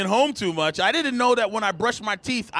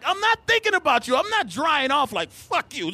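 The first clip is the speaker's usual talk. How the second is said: high, indignant mock protest; comic quarrel outburst; exasperated denial; 8 semitones higher than usual. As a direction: protest with the voice pitched right up.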